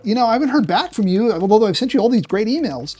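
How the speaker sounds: high, mock-jokey voice with fake laughs; forced humor. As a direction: ham up a lame joke, chuckling at yourself. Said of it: "People who are not funny try to shoot for humor".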